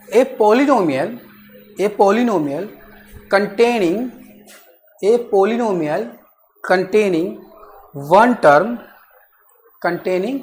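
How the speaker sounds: word by word, drawn out for students to write; slow dictation. Acted. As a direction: dictate each phrase slowly and repeat it. Teacher dictating definition slowly.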